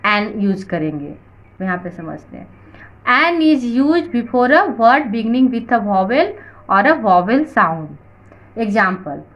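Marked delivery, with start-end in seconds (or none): 3.2-7.9 slow, measured English read-out; teacher reading aloud. Shown as a demonstration. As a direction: read the rule out word by word. Reads rule aloud slowly. (धीरे-धीरे पढ़कर सुनाना)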